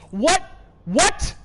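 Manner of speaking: high, loud startled What; shocked yelp. Real, not acted. Streamer jolted by what appears on screen, startled yelp. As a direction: blurt it out in disbelief.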